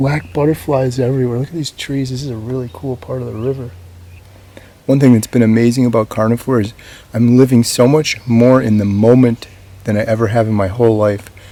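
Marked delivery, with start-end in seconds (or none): 0.0-3.7 hushed whisper. Stopped on a river with a deer twenty feet away, talking to viewers; whispering. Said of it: "I'm whispering because there's a deer".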